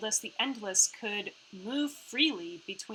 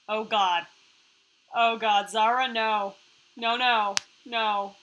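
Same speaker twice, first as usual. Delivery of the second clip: alarmed protest; 6 dB louder than usual. Real, not acted. Friend dreads Zara with weapon.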